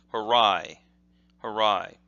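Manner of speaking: harai with English r, stressed second syllable; Western reading of harai. Shown as a demonstration. Showing how the West would read it, harai mispronounced. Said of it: "if you're in the West, you would look at this and say".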